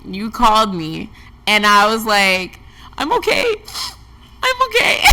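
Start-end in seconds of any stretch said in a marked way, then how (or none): 3.0-5.0 high, teary laughing "I'm okay"; half laughing, half crying it out; tearful laugh. Retold or imitated. Telling a friend about her breakdown, teary laugh. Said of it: "And then I cried for".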